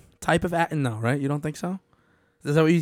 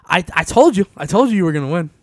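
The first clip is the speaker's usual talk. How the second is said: gloating; 4 semitones higher, 6 dB louder than usual. Pretend. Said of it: "be like".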